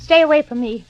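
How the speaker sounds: frightened. Acted. Fending off attacker.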